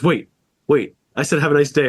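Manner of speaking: a touch of rising panic, imitating the guy; half-hearted flustered repeat; mock worker starting to fret; mildly panicked. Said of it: "he starts freaking out and goes".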